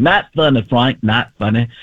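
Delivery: lightly put-on scolding voice; Terry Bradshaw. Sportscaster scolding Frank, mimicked. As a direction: complain to Frank, dropping at the name. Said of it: "Terry Bradshaw every week for years going".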